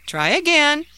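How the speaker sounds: upbeat, high, coaxing nudge; encouraging. Acted. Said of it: "encouraged his uncle".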